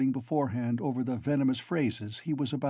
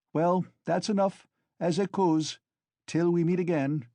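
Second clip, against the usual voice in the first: wild parting shot; 5 semitones higher, 4 dB louder than usual. A narrator's reading. Raskolnikov parting jab, trembling.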